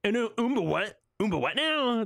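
high, baffled parroting; hammed-up incredulous question; mimicked disbelief. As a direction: imitate a puzzled double take. Mimics the clip just played.

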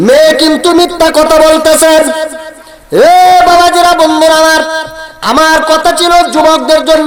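high, loud sermon cry; full-force preaching. Acted. Preacher warning the youth against disrespecting mothers, full-force preaching. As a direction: ring out over the crowd.

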